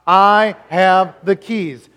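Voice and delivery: each word drawn out and loud. Shown as a demonstration. Preacher leading the church to repeat, slow and loud. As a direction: lead the congregation to repeat, loud. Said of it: "Say it with me".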